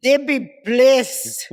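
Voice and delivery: slow, loud pleading in a put-on Arab accent; mock Arab accent. Boyfriend begging upstairs at night, mock Arab accent. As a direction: imitate an Arab boyfriend, drawing out each word. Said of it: "with that Arab boyfriend".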